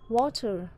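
water with WA stressed; stress on first syllable. Shown as a demonstration. Teacher gives water as noun example, stress on wa. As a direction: lean on wa, let ter fall in water. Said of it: "trọng âm rơi vào âm tiết thứ nhất".

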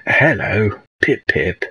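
put-on posh old greeting, lifted on hello; lightly put-on posh old British voice. Shown as a demonstration. Streamer demonstrating sketch characters' greeting, posh old voice. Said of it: "like, this posh old voice".

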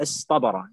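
اصطبر run together with a heavy T; easy emphatic Ta. Shown as a demonstration. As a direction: glide from S into a dark T in اصطبر. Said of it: "يعني هو سهل".

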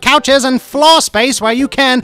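cheesy announcer voice. Acted. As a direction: sell the house like a cheesy TV spot. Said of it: "do my best cheesy announcer voice".

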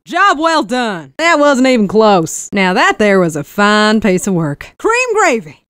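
a sassy Texan cowgirl barking battlefield lines. Acted. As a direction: play the Texan engineer, cocky and folksy.

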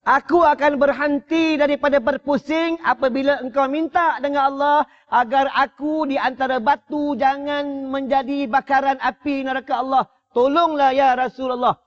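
a stone begging the Prophet for mercy; talking stone pleading. Acted. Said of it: "Ini batu ni bercakap, dia kata apa?".

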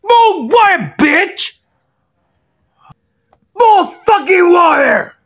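demanding yell. Acted. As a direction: shout the demand. Drunk demanding water.

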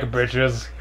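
whispered taunt; whispering. Pretend. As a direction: breathe it out, unvoiced.

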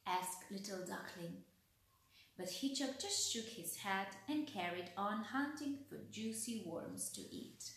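put-on gentle read-aloud voice for children; expressive picture-book reading; storybook narration. A narrator's reading. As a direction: tell it like a bedtime story.

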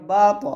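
বা ত with an echoing bounce on ত; qalqala. Shown as a demonstration. Teacher showing qalqala, বা ত with bounced ending. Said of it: "ত হচ্ছে কলকলা হরফ".

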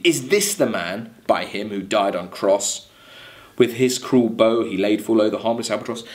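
measured recital of verse; poem reading. Acted. Teacher reading the Rime aloud to class, measured recital.

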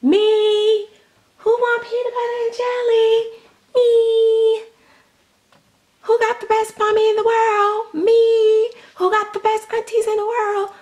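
put-on very high, loud squeaky little girl voice; baby doll voice. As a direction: play the doll bragging in a tiny high voice. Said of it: "so she's like".

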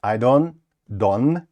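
"don't" with no final T, like "don"; dropped T in don't. Shown as a demonstration. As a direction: swallow the T of "don't". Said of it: "без вимови звука T".

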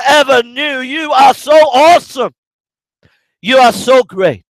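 loud, high preaching at full force; shouting preacher. Real, not acted. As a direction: proclaim it with a shout from the pulpit. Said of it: "think I'm shouting in as I'm preaching".

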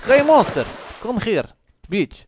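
high, loud taunting call; hammed-up yell at a monster; mock taunt. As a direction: goad the monster from afar.

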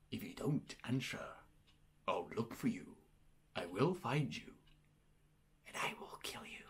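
low, soft menacing voice sinking to a whisper on the last words; quiet, deadly serious threat fading into a whisper; movie-villain threat. Pretend. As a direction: threaten the silent caller like a film villain. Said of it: "I just basically threatened the guy's life".

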